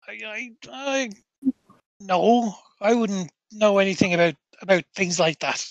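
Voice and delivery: uneasy, stammering caretaker; clamming up. Acted. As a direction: stammer a denial, eager to get away. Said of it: "he seems to clam, clam up a bit".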